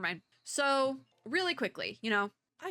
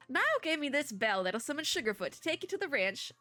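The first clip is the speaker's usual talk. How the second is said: bad Southern accent; 4 semitones higher than usual. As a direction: read it as a folksy Southerner, badly. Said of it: "the really bad Southern accent".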